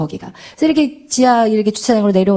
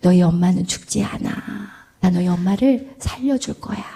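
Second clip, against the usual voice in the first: quiet, soft whisper, lower pitched; 5 semitones lower, 5 dB quieter than usual. Retelling the words whispered into a child's ear, retelling a soft whisper. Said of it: "귀 속으로 속삭였대요".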